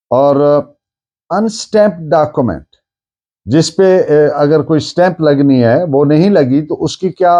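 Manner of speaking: ordinary talk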